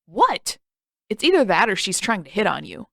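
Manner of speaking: loud defensive protest; indignant outburst. Acted. Sokka protests to Katara, loud and defensive. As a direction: throw the words back at her.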